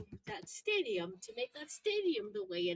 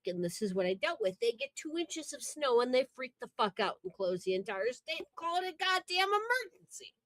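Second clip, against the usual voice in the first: Jersey accent; 3 dB louder than usual. Shown as a demonstration. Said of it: "talk like I'm from Jersey".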